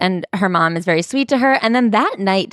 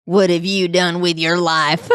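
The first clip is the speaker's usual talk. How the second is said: a disapproving grandfather, voice altered; imitating Dada. Redoing the grandpa's question to the mom on request, put-on old-man voice. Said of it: "Say it again".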